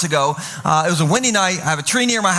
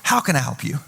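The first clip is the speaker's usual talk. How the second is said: genuine concern; 7 semitones lower than usual. Shown as a demonstration. Pastor showing how to ask someone in trouble, genuinely concerned. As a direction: ask it gently and sincerely. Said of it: "is genuinely ask them".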